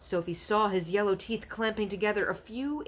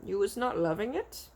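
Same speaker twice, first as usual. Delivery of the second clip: innocent; 3 semitones higher than usual. Acted. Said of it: "the B F G asked innocently".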